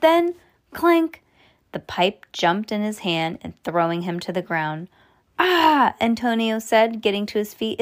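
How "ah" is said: pained yelp. A narrator's reading. Thrown to the ground.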